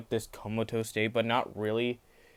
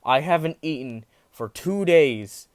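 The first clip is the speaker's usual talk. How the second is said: stern, louder, higher demand; 3 semitones higher, 5 dB louder than usual. Retold or imitated. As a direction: lay down the law, loud and stern. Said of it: "goes into a stern voice".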